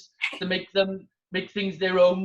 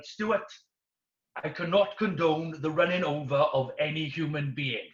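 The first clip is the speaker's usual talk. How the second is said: prim instructor; 5 semitones lower than usual. Retold or imitated. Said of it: "your guy's like".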